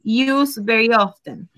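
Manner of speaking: each word spaced out for students; slow, careful teacher read; slow model sentence. Shown as a demonstration. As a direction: read it slowly so the class can follow. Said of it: "Entonces, en este caso".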